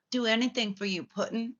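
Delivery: high, sugary imitation of a devoted girlfriend; mock devoted Harley. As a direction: simper it like a lovesick girl.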